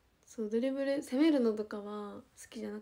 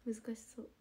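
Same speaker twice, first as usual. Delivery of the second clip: whispered aside; 8 dB quieter, faster than usual. Real, not acted. Muttered aside to self.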